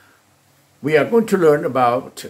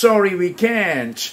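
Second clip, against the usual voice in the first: drawn out, words spaced; slow it down for students; slow drill model; slow model answer; 5 semitones higher, much slower than usual. Shown as a demonstration. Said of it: "บอก".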